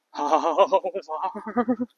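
very slow, creaky, bubbling fry; playful vocal fry. Shown as a demonstration. Teacher shows fry used for fun, very slow and creaky. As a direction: squeeze the word out in jumps like bubbles.

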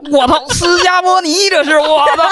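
high, teasing voice of a friend laughing at a bad perm; mocking laughter. Friend pointing and laughing at the new perm, mock teasing. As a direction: imitate a buddy cracking up while pointing at you. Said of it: "就指着我笑".

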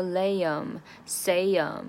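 "liam", "siam" with the ending weakened to "um"; reduced to schwa. Shown as a demonstration. Teacher's examples "liam" and "siam", endings reduced to schwa. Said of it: "大量的弱化成a".

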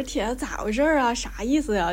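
northeastern Chinese accent. Shown as a demonstration. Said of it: "就是非常local".

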